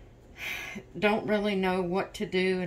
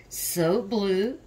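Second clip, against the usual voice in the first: yawning through words; slower than usual. Real, not acted. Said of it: "I'm yawning".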